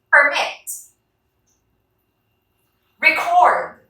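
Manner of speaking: Permit, Record, Increase, Transfer, Discount, each stressed on the last syllable; word-list drill, perMIT, reCORD, inCREASE, transFER, disCOUNT; stress on second syllable. Shown as a demonstration. Teacher reads verbs for the class to follow, second syllable stressed in Permit to Discount. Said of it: "on its second syllable".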